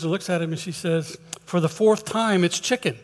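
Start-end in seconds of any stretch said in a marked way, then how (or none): 1.4-3.0 mildly fed-up retort, pitched up at first; exasperated. Acted. Wife answers husband's repeated question, mildly exasperated.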